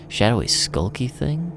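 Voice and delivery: slow, incredulous echo, rising at the end; mocking disbelief. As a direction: throw the phrase back, mocking how childish it is. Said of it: "Jesus, kid".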